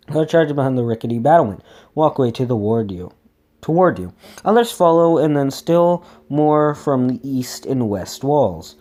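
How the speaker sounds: animated read-aloud storytelling; expressive story reading; gamebook narration. A narrator's reading. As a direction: read the adventure with lightly acted dialogue.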